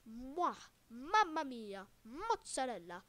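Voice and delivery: hammed-up Italian accent with a chef's kiss. Minecraft builder admiring his pedestal in a mock Italian accent. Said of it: "do some nice Italian accents".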